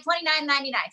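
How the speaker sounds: price called out again; infomercial. Shown as a demonstration. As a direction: pitchman repeating the price. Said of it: "Should I say it again".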